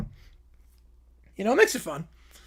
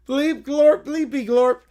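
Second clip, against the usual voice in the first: hammed-up alien bleeps, a bit louder; alien gibberish voice; 3 dB louder than usual. Alien showing off his acting with bleeps. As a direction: say it like a cheesy movie alien. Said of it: "Notice the McClure inflection?".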